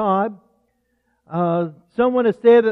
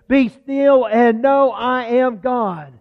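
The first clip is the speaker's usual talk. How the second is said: solemn quote; slower than usual. Acted. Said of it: "Listen to what God says".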